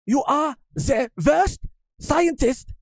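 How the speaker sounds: high, slow, scolding scientist voice; angry Vegapunk yell. Retold or imitated. Mocking Vegapunk yells at a failed scientist, high-pitched scolding. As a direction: scold him like a furious old scientist. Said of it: "he's like".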